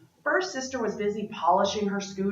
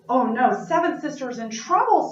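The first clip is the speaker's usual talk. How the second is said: alarmed; 4 semitones higher, 5 dB louder than usual. Acted. First sister alarmed.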